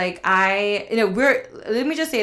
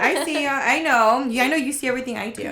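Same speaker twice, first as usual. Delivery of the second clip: laughing taunt; 4 semitones higher than usual. Retold or imitated. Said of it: "I was like".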